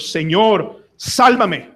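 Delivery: mild shout for rescue; crying out to God. Acted. Preacher acting the cry to the Lord, crying out. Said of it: "tenemos que gritar al Señor".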